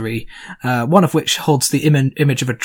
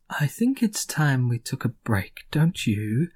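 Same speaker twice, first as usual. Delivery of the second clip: slow, soft Gorm; 2 semitones lower, 4 dB quieter, slower than usual. Acted. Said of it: "Gorm at this point says".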